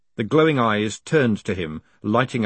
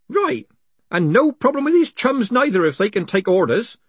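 put-on much higher, generous old postman; high old man voice; 11 semitones higher, 4 dB louder than usual. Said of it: "said Groat generously".

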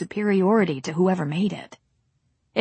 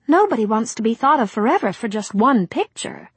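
put-on polite young starlet, pitched up; young actress; 3 semitones higher, 4 dB louder than usual. Rosemary says.

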